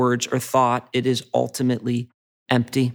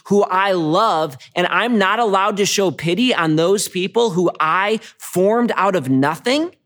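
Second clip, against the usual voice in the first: retold God's rebuke; 5 semitones higher than usual. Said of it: "God kind of does the ultimate mic drop".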